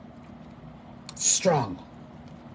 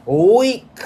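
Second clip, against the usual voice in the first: far higher, louder mocking cry; shrieked jeer; 7 semitones higher, 8 dB louder than usual. Real, not acted. Marcia mocking him for needing women, shrieking jeer. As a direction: stretch it out to mock him. Taunting rival as weak.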